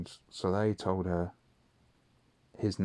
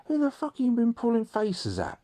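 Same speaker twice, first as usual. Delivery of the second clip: high, louder mock angry dad; imitating dad shouting the question; pitched way up in mock fury; dad yelling; 5 dB louder than usual. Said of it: "And he's like".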